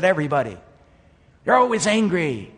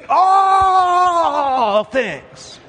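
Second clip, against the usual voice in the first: high, loud shouted emphasis on All; preaching shout; 13 semitones higher, 6 dB louder than usual. Real, not acted. Preacher driving home to the church, shouted emphasis. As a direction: belt it out to the congregation.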